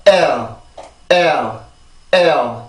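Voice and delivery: "엘" stressed from the vocal cords, falling; stressed first syllable. Shown as a demonstration. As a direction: push "엘" from a tensed throat, no consonant to lean on. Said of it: "이렇게 발음이 되는 거예요".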